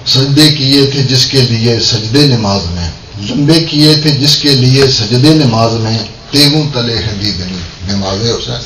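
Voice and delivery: measured devotional Urdu couplet recital; verse delivered line by line; poem recitation. Acted. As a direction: recite the couplet to a gathering, falling at the close.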